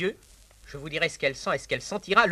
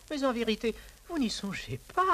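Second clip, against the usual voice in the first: coy mock protest; 6 semitones higher, 4 dB quieter than usual. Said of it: "ajoutait-elle ensuite".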